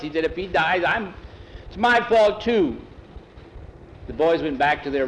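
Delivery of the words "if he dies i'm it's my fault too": put-on guilty boy. Boy blames himself.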